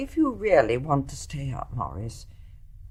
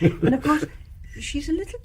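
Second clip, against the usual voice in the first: laughing; 9 semitones higher than usual. Real, not acted. Laughing at the doctor's joke.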